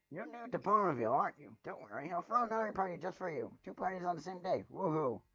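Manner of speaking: high, loud, bouncing with glee; hyper excited. Acted. Party pony greeting the newcomer, high and loud. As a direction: burst with party energy. Pinkie gasps, bubbly party offer.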